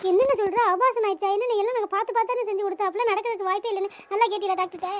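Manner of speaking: distressed, disbelieving questioning; shocked disbelief. Acted. Relative just told of a miscarriage, shocked and disbelieving. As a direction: react in stunned disbelief, voice lifted a little.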